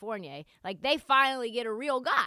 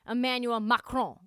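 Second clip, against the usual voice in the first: mock official; 5 dB louder than usual. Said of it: "that's how he wanted me to say it".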